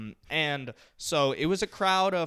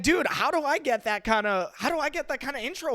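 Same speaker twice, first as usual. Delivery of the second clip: mock nervous envy; 6 semitones higher, 4 dB louder than usual. Acted envious nervous reaction to friend's intro.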